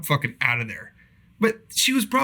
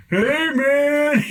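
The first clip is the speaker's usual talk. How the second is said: much higher, louder hey; mock casual greeting; 12 semitones higher, 5 dB louder than usual. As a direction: voice the buddy's sheepish text. Reading friend's text aloud.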